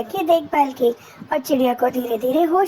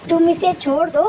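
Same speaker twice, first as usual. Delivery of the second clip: thundering cloud; 3 semitones higher than usual. Acted. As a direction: threaten the kites in a big booming voice. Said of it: "बादल गरज के साथ बोला".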